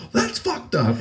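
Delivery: high-pitched imitation of the friend; mock outrage. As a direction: squeak it up like a sore loser. Quoting the friend's outraged reply.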